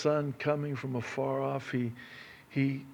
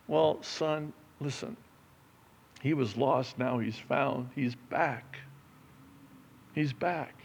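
gentle father; 2 semitones higher, 4 dB quieter than usual. Retold or imitated. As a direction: soothe the angry brother quietly. Father answers older son gently.

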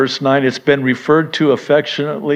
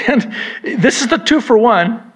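usual speaking voice

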